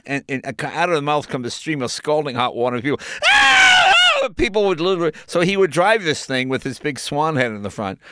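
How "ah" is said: sudden high yelp of a scalded pedestrian; mock scream. Pedestrian splashed, sudden high mock scream. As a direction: yelp like someone hit by hot water. People scalded by swan car.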